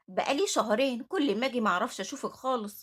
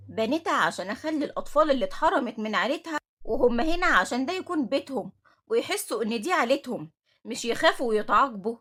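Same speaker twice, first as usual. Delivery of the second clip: stern anger; 5 dB louder than usual. Acted. Director confronts Nemat angrily.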